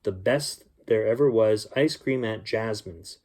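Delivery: gentle storybook reading voice; story narration. A narrator's reading. Uncle reading a bedtime story to children, storybook voice. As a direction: read it like a bedtime story for kids.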